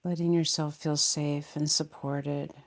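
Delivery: calm meditation voice with long pauses; unhurried, settling meditation guidance; guided meditation. Real, not acted. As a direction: guide them gently, leaving space between phrases. Leads guided meditation after bell.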